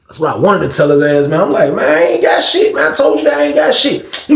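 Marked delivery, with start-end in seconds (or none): 1.7-4.2 heated denial. Retold or imitated. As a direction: push back hard, voice up high. Denying Frank, heated exchange.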